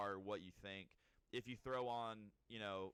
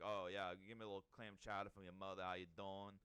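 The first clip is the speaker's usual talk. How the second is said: lower, fast, lightly mocking bro voice; impression of the TikTok guy; 4 semitones lower, faster than usual. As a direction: toss off his catchphrase quickly and a bit low, half-mocking. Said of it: "Your impression is good".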